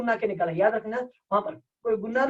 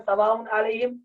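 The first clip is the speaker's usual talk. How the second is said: Quran recitation. Shown as a demonstration. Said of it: "سورہ بقرہ میں".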